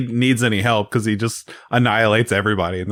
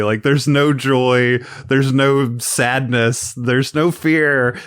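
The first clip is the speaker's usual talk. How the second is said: slow deliberate list; slower than usual. Real, not acted.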